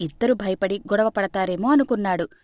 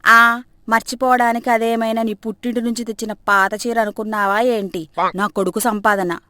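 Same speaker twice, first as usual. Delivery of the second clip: sarcastic; 3 dB louder than usual. Acted. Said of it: "ఎటకారంగా".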